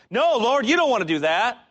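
high, loud pleading tempter voice; tempter whisper. Acted. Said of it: "Same thing Peter wanted".

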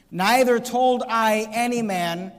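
slowed, deliberate scripture reading; weighty slow reading. Shown as a demonstration. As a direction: read each word slowly. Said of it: "notice what he says".

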